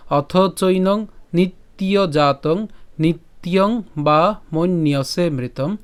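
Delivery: slow, measured Sanskrit verse; shloka line recitation. Shown as a demonstration. Teacher repeats the first line for learners, slow recitation. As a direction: recite slowly with lengthened syllables. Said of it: "প্রথম লাইনটি আবার বলি".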